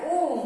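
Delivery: ओम held long and loud, the vowel stretched; long drawn Om. Shown as a demonstration. Teacher demonstrating a pluta vowel to pupils, ओम long and loud. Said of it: "वही हमने जैसे अभी बताया".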